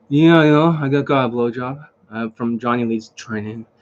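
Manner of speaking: imitating a student whose tune sinks at the end of each phrase; tune falling at the end. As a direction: let the pitch sink at the end of every phrase, like a sigh. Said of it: "It, it always goes down at the end".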